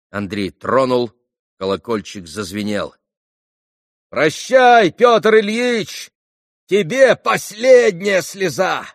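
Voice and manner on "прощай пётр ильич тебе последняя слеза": громкий, надрывный прощальный крик. A narrator's reading. Митя кричит прощание с тройки.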